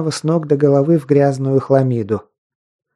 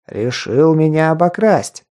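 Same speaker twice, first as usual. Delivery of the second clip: gurgling fish man croak; 3 semitones higher than usual. Acted. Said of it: "жуткий булькающий голос".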